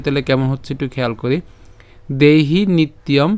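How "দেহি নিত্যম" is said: slow model reading of a Sanskrit line; measured verse reading for learners; line recitation. Shown as a demonstration. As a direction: recite slowly in short phrases. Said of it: "লাইনটা যদি আবার প্রথম থেকে একটু উচ্চারণ করি".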